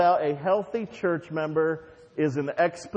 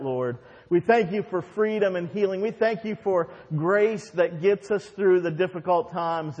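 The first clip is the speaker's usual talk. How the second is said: congregational prayer. Real, not acted.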